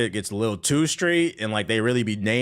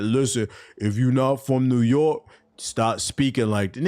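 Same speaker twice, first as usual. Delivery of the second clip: lightly voiced kid scolding, slow; a hint of the kid laying down the law, drawn out; imitating the TikTok kid; 2 semitones higher than usual. The streamer quoting a TikTok kid's rant, a slow mock lecture. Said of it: "When that kid said".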